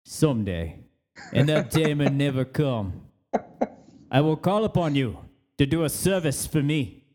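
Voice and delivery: mock Godfather-style favour speech in a wandering JFK accent; a grand, slightly slowed Boston-Kennedy accent, drifting all over the place; JFK-type accent. Offering a coworker coffee, in a hammed-up JFK accent. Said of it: "a J F K type accent".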